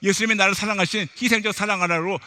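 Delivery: exasperated, pleading protest in prayer; acted-out indignant complaint, surging on each "why"; complaining to God. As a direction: cry out "why me" grievances to the Father. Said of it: "마치 불평을 했어요".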